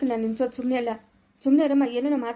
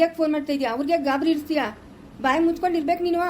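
angry scolding; 3 semitones higher than usual. Acted. Father scolding daughter for phoning the in-laws, angry. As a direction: order her to shut her mouth.

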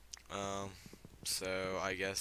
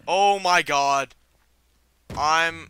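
screaming, much higher and louder, slowed; a real shriek of fright; terrified scream; 9 semitones higher, 21 dB louder, much slower than usual. Real, not acted. Sudden fright from ogre.

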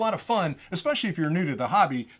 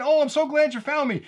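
high, louder, gushing relieved voice; voiced drone; 9 semitones higher, 5 dB louder than usual. Drone greets the controller that found it, playful high voice. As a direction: play a drone happily reunited. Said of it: "the drone's saying".

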